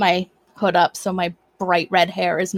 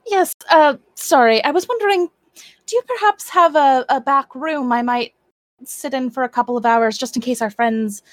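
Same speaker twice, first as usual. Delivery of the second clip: polite adventurer; 3 semitones higher than usual. Acted. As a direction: ask the shopkeeper nicely, a little nervous. Character politely asks shopkeeper.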